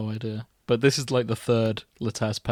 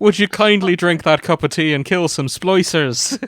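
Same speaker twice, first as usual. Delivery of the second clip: high, loud Irish housekeeper voice; pushy Irish housekeeper offering tea; Mrs Doyle voice; 6 semitones higher, 9 dB louder than usual. Pretend. Mrs Doyle voice mixed with game line.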